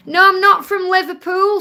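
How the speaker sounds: a loud, insistent no, I'm not from Liverpool; emphatic denial. Real, not acted. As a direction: firmly set the record straight. Answering a viewer's question.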